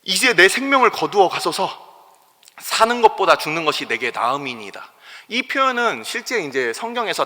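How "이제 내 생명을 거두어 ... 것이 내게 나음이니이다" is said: despairing plea. Retold or imitated. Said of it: "요나가 표현한 이 얘기를".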